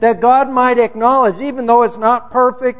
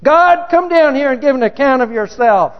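mock indignant demand; 4 semitones higher than usual. Demanding God account for himself.

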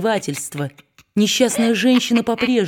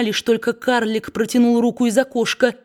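ordinary delivery, nothing marked

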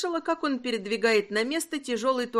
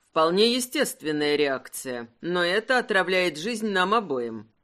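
a hint of a grave husband, lower; lightly voiced husband, lower and serious; 4 semitones lower than usual. Husband reproaching wife for testing him, lightly lower and serious. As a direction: say it low and in earnest.

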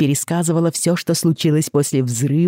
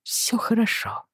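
soothing; 9 semitones higher, 6 dB quieter than usual. Acted. Father soothing crying child.

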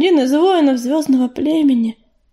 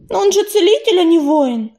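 put-on higher, emphatic young cat voice; prompt objection; 5 semitones higher, 3 dB louder than usual. A narrator's reading. Белочка immediately objects to the guess about the sign, emphatic. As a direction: jump in and contradict. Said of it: "тут же возразила Белочка".

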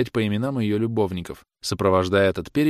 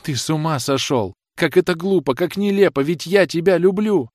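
high, loud desperate cry, slowing on the love; 7 semitones higher, 3 dB louder than usual. A narrator's reading. Rosanette clinging to her departing lover, crying out desperately. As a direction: clutch him and plead at the top of her voice. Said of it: "закричала".

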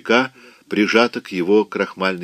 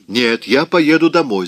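higher, louder, the voice cracking; shouting; 5 semitones higher, 4 dB louder than usual. Acted. Scarlett refuses Rhett's order, shouting with a cracking voice. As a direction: yell it until the voice breaks. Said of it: "закричала она, и голос её сорвался".

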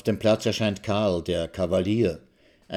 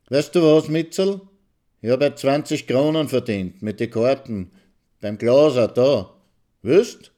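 halting Viennese dialect; 5 semitones higher, 5 dB louder than usual. A narrator's reading. Maxl telling his wife about his earnings in halting Viennese. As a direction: stumble along in Viennese dialect. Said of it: "in seinem stotternden, gedehnten Wiener Dialekt".

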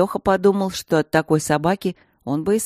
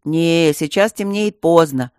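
sedate; 5 dB louder, slower than usual. Acted. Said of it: "степенно возразил Лёха".

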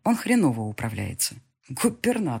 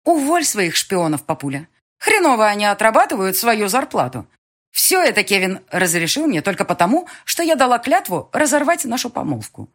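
blurting; 5 semitones higher, 5 dB louder than usual. Acted. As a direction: fire it off at father. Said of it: "я сделала вдох и выпалила".

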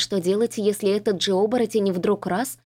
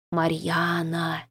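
low, slow, soft far-off call; distant calling voice; 3 semitones lower, 4 dB quieter, much slower than usual. A narrator's reading. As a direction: call her name from far away. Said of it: "позвал меня чей-то голос".

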